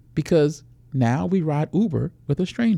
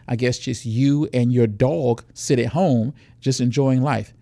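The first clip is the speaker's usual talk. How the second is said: acted pushy argument; 3 dB louder than usual. Predator pushes, woman refuses.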